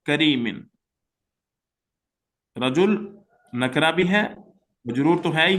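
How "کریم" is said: slow, careful Arabic recitation; slow Arabic reading. Shown as a demonstration. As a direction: read the Arabic word by word. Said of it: "میں دیکھیں اس کو". (آہستہ عربی قراءت)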